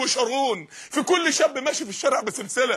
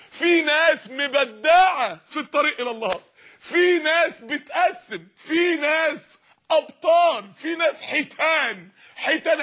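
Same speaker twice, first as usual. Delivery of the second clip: rising shout; 4 semitones higher, slower than usual. Real, not acted. Preacher building to a shout.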